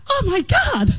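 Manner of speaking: high, crying voice, choking up; husband overcome with tears, voice cracking; tearful husband. Retold or imitated. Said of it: "And he goes".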